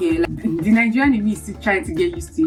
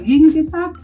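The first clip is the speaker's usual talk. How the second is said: acted cashier question; 8 semitones higher, 5 dB louder than usual. Acting out cashier again.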